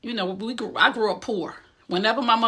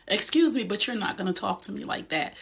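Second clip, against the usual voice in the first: firm boundary; 5 dB quieter than usual. Shown as a demonstration. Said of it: "Show them how to interact with you".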